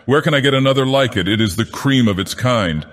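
high, impassioned pleading; passionate cry. A narrator's reading. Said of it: "cried the fisherman as passionately".

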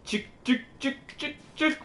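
high sing-song chicken call. Pretend. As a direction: call it in like hens. Calling to creature like chickens.

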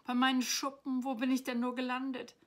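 high, loud bewildered lament; wailing dragon. A narrator's reading. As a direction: wail like a lost little dragon. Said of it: "hörte Philipp ihn jammern".

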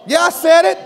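defiant shout. Real, not acted. Preacher owning a bold line.

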